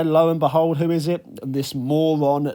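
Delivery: loud, high build-up to the reveal; excited reveal. Real, not acted. Gamer revealing the intruder to viewers, loud and excited. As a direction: hype up "Lo and behold" like a big twist. Dramatic reveal in game recap.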